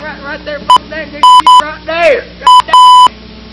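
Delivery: high, slow, thrilled calling out; excited hollering. Acted. Watching something float, excited.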